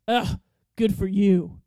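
put-on slow, loud, dismissive New York accent; imitated scornful New York local. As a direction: brush them off as a gruff New Yorker. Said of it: "New York accent".

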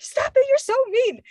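high-pitched mock scolding; retold protest. Spooked friend to teasing friends, retold protest. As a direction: imitate a whiny telling-off of pranksters.

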